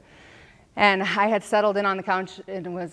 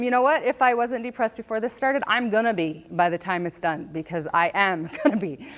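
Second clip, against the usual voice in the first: a sassy comeback to her doctor; defiant retort; 4 semitones higher than usual. Retold or imitated. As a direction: throw it back at him with spirit. Snapping back at doctor retold.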